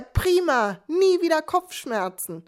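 a hint of the fluting husband, slowed down. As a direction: sing it sweetly like a chirpy optimist. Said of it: "flötet er".

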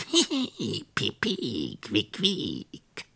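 high squeaky mouse giggle; squeaking mouse. Acted. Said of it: "piepte und quiekte".

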